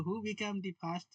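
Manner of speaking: slow dictation. Shown as a demonstration. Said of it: "dictating English slowly".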